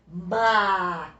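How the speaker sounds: "Macaco" slowly split into syllables, strong CA; slow ma-CA-co, teacher marking the stressed syllable; stress on penultimate syllable. Shown as a demonstration. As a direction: space out "Macaco", landing on the middle "ca". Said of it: "É a mais forte".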